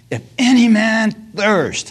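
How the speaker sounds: high, loud, drawn-out preacher's cry. Retold or imitated. Preacher retells Jesus standing at the feast, crying out. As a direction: call it out slowly to the crowd. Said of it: "he cries out".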